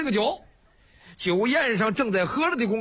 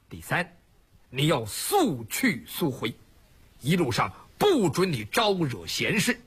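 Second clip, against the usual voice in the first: stern, measured leader; 5 semitones lower, slower than usual. Acted. Song Jiang sets third condition.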